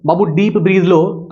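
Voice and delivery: put-on slow, gentle coaxing to the baby; coaxing the newborn. Shown as a demonstration. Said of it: "अगर उस बच्चा को हम बोलेंगे".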